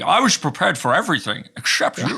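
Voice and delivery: Sean Connery style Scottish; Scottish accent. Acted. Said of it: "at least try to".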